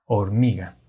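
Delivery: "Hormiga" with the force on mi; stress on MI. Shown as a demonstration. Teacher showing the tonic syllable, "Hormiga" stressed on mi. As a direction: lean on the middle syllable mi in "Hormiga". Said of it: "la fuerza del sonido es, es más intensa ahí".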